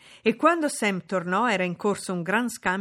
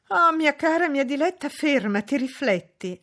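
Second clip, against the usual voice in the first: imploring; 8 semitones higher, 7 dB louder than usual. A narrator's reading. Mother begs her daughter to stop, imploring. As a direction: beg urgently, starting high. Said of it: "la implorò la madre".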